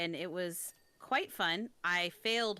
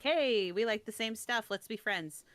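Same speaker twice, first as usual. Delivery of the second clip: eager friendly greeting; 4 semitones higher, 4 dB louder than usual. Retold or imitated. Voicing new friends hitting it off.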